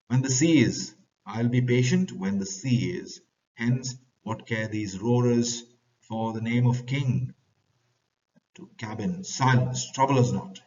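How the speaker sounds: loud, irritated sailor's rebuke; angry bosun. Acted. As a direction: snap back at the nobleman. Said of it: "Bosun says".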